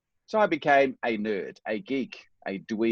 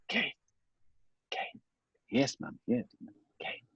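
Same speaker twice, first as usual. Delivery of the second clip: faint whispered voice of a dying mother; 3 semitones higher, 7 dB quieter than usual. Retold or imitated. Son recalls his dying mother calling him, faint whisper. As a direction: barely breathe the words out. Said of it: "And she'd whisper something to me".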